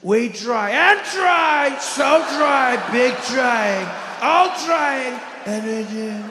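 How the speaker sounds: lurch the volume and inflection at random; Donald Trump. Retold or imitated. President addressing Americans, erratic swelling Trump impression. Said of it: "The volume on his voice all over the place".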